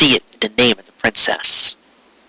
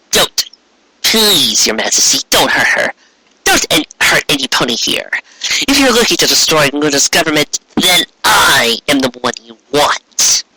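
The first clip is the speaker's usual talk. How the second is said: Trixie pleading; 2 semitones higher than usual. Acted. Unicorn begging the queen to spare the ponies. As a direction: plead to spare the town, then offer yourself.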